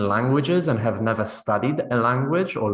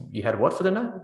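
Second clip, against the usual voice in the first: higher-pitched puzzled question; confused; 5 semitones higher, faster than usual. Acted. Confused listener asking a friend to repeat, puzzled. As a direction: ask it as if you didn't catch the word. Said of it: "the other person is confused".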